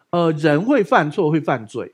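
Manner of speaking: 人会犯错 drawn out slowly; slow, deliberate. Shown as a demonstration. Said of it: "每一个人都会犯错".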